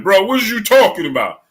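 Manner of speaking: imagined defensive outburst; mock emotional. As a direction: act out an indignant, wounded comeback. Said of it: "if I was emotionally damaged".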